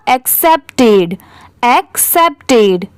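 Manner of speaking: एक्सेप्टेड slowly as एक्सेप्ट plus टेड; teacher modelling एक्सेप्टेड in two clear parts; word in parts. Shown as a demonstration. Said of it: "तो पूरा क्या हो जाएगा?". (एक्सेप्टेड को धीरे, टुकड़ों में बोलें)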